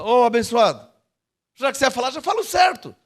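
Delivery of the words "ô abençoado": the same words turned into a blessing; kindly greeting someone as blessed; blessing, the right way. Shown as a demonstration. (abençoando com carinho)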